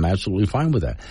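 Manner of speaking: level, earnest agreement; sincere. Shown as a demonstration. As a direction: say it and mean it plainly. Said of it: "I'm not saying that sarcastically".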